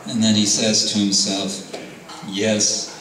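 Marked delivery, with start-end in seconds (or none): 2.3-2.9 amused chuckle. Acted. Nrsingadev to himself.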